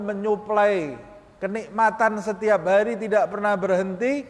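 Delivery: a preacher rebuking the soul; scolding own soul. Shown as a demonstration. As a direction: chide your own soul for its shame. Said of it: "sambil engkau berbicara".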